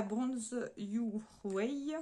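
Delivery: slow, careful French-accented English; clumsy English accent. Real, not acted. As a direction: spell out Bronze Your Way slowly in English with a French accent. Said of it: "Mon accent est à chier".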